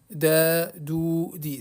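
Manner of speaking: "Da, dou, di" with each vowel lengthened; teacher demonstrating long "Da, dou, di"; long syllables. Shown as a demonstration. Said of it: "c'est des syllabes longues".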